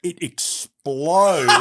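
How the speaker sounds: slow, laughing through the words. Real, not acted. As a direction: let the laugh break through. Telling the coffee explosion story.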